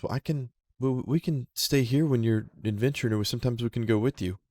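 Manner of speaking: gentle little animal offering; raccoon voice. Acted. Lime answering the player's choice, lightly voiced critter.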